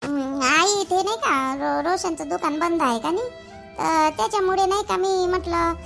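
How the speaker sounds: hesitant, halting excuse; nervous explanation. Acted. Daughter-in-law explaining the brinjals to her mother-in-law, nervous and hesitant. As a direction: stall and stumble through your justification. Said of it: "एवढं घाबरायचं कारण आहे का".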